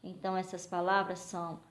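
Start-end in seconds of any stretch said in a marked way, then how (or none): none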